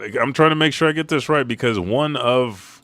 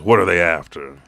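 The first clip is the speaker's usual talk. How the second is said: serious tone; 3 semitones lower, 5 dB louder than usual. Retold or imitated. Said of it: "In a serious tone".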